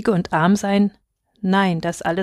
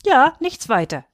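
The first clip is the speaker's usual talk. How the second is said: eager, higher-pitched confirmation; calling out; 6 semitones higher than usual. A narrator's reading. Child backs up sister to father, calling out. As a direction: pipe up brightly in agreement. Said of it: "rief ich".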